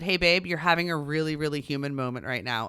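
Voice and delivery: softening into calm, patient reassurance; understanding parent. Pretend. Mom imagining comforting her overwhelmed son, gently reassuring. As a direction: gently talk a child through it. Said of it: "Or I could have said".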